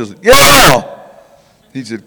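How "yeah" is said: shouted high and loud, full of eagerness; eager yes. Retold or imitated. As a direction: burst out yes like a keen young man. Eager reply to devil chaser.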